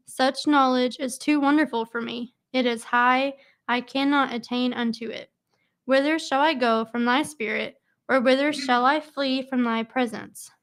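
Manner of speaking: steady, formal Bible reading; measured psalm reading aloud; scripture reading. Acted. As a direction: read the verses like a reader at a study. Reads psalm aloud to group.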